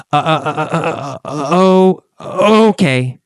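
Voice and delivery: stammering uh uh uh before a reluctant okay; hesitate, stop and start, then give in; hesitant. Shown as a demonstration. Teacher demos Kathy's unsure reply, stammering hesitantly. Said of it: "She says it hesitantly".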